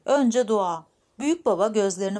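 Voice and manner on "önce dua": louder, stubborn repeat of a demand; insistent. Acted. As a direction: press the demand, lightly acted. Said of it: "diye tutturdu büyük anne". (ısrarla, biraz yüksek sesle)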